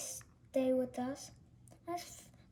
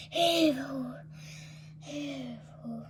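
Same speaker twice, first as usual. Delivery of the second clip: fading heave ho; 3 semitones lower, 3 dB quieter, slower than usual. Acted. Chant fading while carrying.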